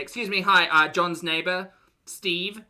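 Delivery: politely accost someone at their door; a hint of TV journalist; doorstepping reporter. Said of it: "and they say".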